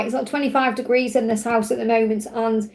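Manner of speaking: slightly croaky, hot and sweaty; a touch of croak in the voice. Real, not acted. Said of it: "It makes my voice croaky when it's hot".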